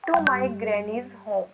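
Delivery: very slow, every word stretched; slow careful English demo; slow dictation. Shown as a demonstration. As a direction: model the phrase slowly for students. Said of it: "नानी के घर को क्या बोलते हैं".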